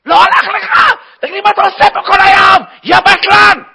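high, full-volume tirade; hammed-up angry shouting; furious boss. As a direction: tear into a lazy employee. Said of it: "אדון משה היה עצבני".

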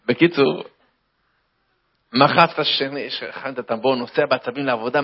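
ordinary talk

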